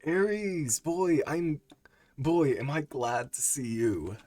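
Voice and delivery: loud, high, relieved hello; boy, am I glad, said loud; excited greeting. Acted. Voicing Craig greeting.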